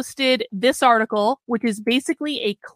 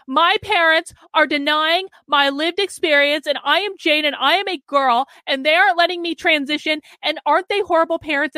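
put-on whiny kid complaining; 5 semitones higher than usual. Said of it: "the kid goes to the school psychologist's office and goes".

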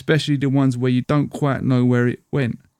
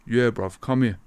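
softer, offhand street call; rude boy call; 3 dB quieter than usual. Retold or imitated. Debt collector calls the schoolboy over again, offhand rude boy voice. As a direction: beckon him again like a local rude boy.

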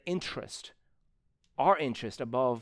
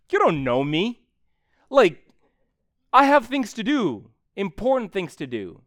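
higher and louder, a huffy brush-off; mock indignant excuse; 5 semitones higher, 8 dB louder than usual. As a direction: play the offended volunteer, louder and higher. Mocking excuse of flaky volunteer.

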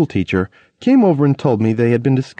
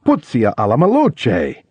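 fake Italian curse. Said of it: "I'd say".

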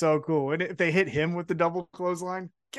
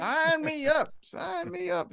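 mock eager yes; 9 semitones higher, 4 dB quieter, slower than usual.

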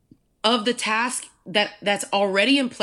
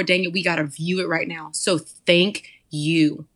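spoken prayer; 3 semitones lower than usual. Acted. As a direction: pray over the listeners. Prays aloud over the listeners.

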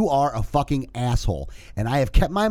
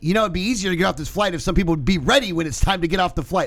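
mild passive-aggressive loud remark, higher pitched; retold pointed remark, pitched up for everyone to overhear; said real loud; 6 semitones higher, faster than usual. Passenger remarking to nobody specifically on the plane, mildly loud. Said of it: "I just said it real loud".

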